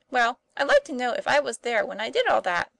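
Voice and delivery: high, loud, mock-earnest puzzlement; serio-comic query. A narrator's reading. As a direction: ask it in comic earnest, with big pitch swoops. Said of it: "serio-comic way in which Tom put this query".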